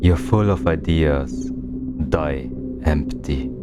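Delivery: slow, deliberate quotation; unhurried, measured quote; quoted saying. Retold or imitated. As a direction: recite it slowly, word by word. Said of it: "Reminds me of a quote".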